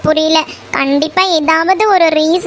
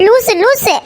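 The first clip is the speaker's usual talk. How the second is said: insulting; 5 semitones higher, slower than usual. Acted. Meena calling the boy an idiot, high angry jab. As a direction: spit the insult twice.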